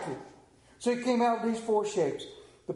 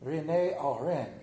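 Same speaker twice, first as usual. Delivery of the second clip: French accent; 5 semitones lower than usual. Shown as a demonstration. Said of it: "That's kinda close to it".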